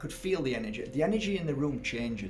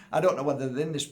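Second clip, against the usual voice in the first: laughing; 3 semitones higher, 6 dB louder, much faster than usual. Real, not acted. Laughs at own joke.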